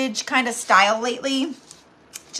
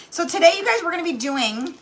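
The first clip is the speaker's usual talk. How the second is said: breathless, winded talk; out of breath; 4 semitones higher than usual. Real, not acted. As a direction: speak short of breath. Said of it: "like, out of breath".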